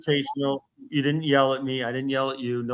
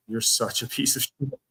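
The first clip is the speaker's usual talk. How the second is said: voiced openly, no longer muttered; real, pointed contempt; emphatic insult; 3 dB quieter than usual. Real, not acted. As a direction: land the insult plainly and deliberately. Insult repeated more openly.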